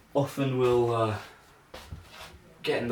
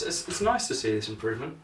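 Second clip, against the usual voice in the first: ordinary talk, nothing marked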